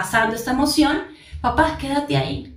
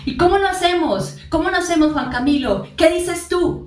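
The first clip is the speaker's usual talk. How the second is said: a higher, curious parent's voice asking; parent asking child; 6 semitones higher than usual. Retold or imitated. Parent asking the child how to do it, higher and curious. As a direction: lift the pitch, ask the child like a curious parent.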